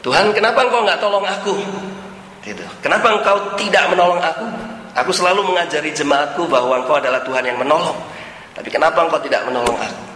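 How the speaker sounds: a pastor protesting to God, half-hearted; mock protest. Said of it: "dia protes sama Tuhan".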